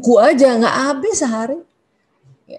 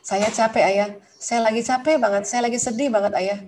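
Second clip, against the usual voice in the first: softer, tired admission to husband; a quiet, honest complaint of being worn out; tired confession; 5 dB quieter than usual. Shown as a demonstration. Wife quietly telling husband she is tired and sad, softer and understated. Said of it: "Tapi kalimatnya gitu".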